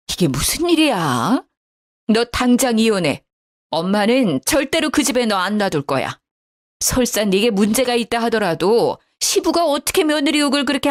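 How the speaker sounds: mother furious on her daughter's behalf, lightly voiced; understated outrage at the in-laws; angry mother. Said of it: "화가 난 친정어머니의 그 말".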